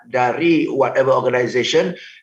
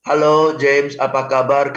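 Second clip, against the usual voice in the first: friendly call; 2 semitones lower, slower than usual. Shown as a demonstration. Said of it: "tidak ada teman saya yang telepon dengan nada flat".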